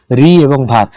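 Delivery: রি and ভার spoken as two distinct pieces; separate syllables. Shown as a demonstration. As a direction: set রি apart from ভার. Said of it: "দুইটা দুটো আলাদা আলাদা অংশ".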